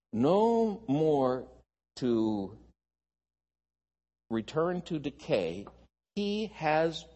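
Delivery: slow, deliberate Bible reading with pauses; solemn scripture read to a congregation, unhurried. Acted. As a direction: read the passage out phrase by phrase. Reads scripture aloud.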